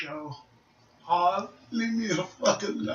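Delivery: soft, fed-up retort; retold tired grumble; weary brush-off. Tired retort to brother's teasing.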